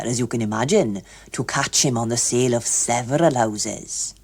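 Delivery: lightly voiced pompous official; lecturing official. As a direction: explain it like a keen clerk. Hughes Evans explains.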